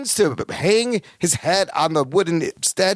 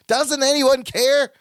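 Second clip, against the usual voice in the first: pleading; 7 semitones higher, slower than usual. Retold or imitated. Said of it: "pleads with them".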